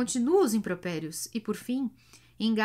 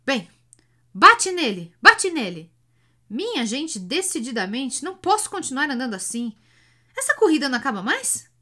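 much louder, higher, fast yelling; 5 semitones higher, 9 dB louder than usual. A narrator's reading. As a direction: shout him onward. Hunchback loudly urging the driver.

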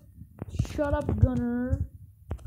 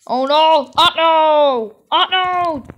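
loud real dismay, rising higher; panicked oh no; 4 semitones higher, 11 dB louder, slower than usual. Real, not acted. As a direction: cry out as the run falls apart. Game failure panic.

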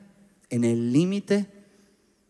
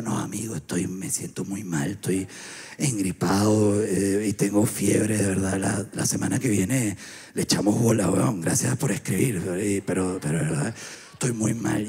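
much lower, softer, slow sick voice; sick and weak; 8 semitones lower, 3 dB quieter than usual. Retold or imitated. Feverish man turns down friend's beer, weak low voice. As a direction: croak it out like you're dying of flu.

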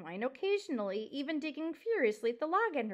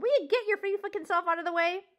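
loud, high impatient order; bellowing; 6 semitones higher, 6 dB louder than usual. Acted. Porcupine wanting the mouse out of the way, bellowing. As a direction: bellow for room to pass. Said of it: "Aerith bellowed".

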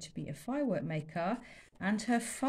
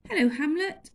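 higher, louder bright hello; cheerful girl greeting; 8 semitones higher, 7 dB louder than usual. Acted. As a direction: greet the elephant. Lila greets elephant.

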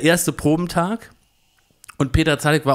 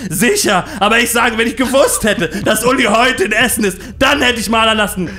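high, loud angry shouting; wütend schreiend; 6 semitones higher, 5 dB louder than usual. Retold or imitated. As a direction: yell the excuse back furiously. (laut wütend schreiend)

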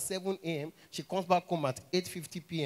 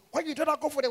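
high mock challenge; 10 semitones higher than usual. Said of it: "I could just say".

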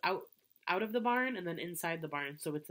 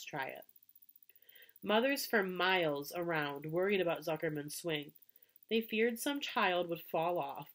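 story narration. A narrator's reading. Reading a children's book aloud to kids, story narration. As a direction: read the barn swing scene like a bedtime story.

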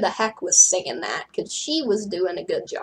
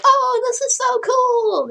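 high, loud, drawn-out squeal of delight; gushing excitement; 6 dB louder, slower than usual. Acted. Frankie thrilled by Lala's fangs, gushing excitedly. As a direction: gush with slow, stretched-out words.

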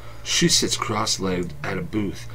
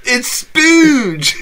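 put-on high girly voice; 9 dB louder than usual. Insisting on game name.

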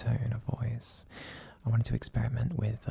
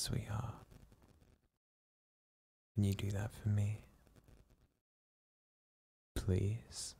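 relaxed ASMR whisper. Acted. Boyfriend whispering his partner back to sleep, hushed and soothing. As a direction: lull him to sleep in a hushed, tender murmur. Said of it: "use a more relaxed and deep tone of voice".

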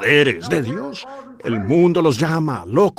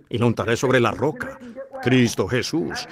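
normal talking voice

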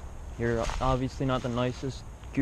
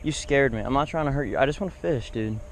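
pleading with goose; 3 semitones higher than usual. Real, not acted. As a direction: talk the goose down, half scared.

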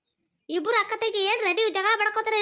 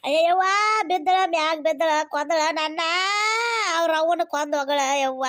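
pained cry; 2 semitones lower, 3 dB louder than usual. Acted. Sister falls on her.

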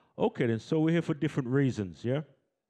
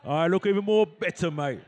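louder, higher Cockney accent; 4 semitones higher, 5 dB louder than usual. Shown as a demonstration. Host repeats the line for the audience, rousing Cockney voice. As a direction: call it out in playful Cockney. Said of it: "in a Cockney voice".

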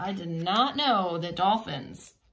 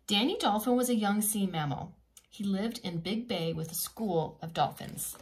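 lively storybook reading voice; reading to children. A narrator's reading. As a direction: read it like a bedtime picture book.

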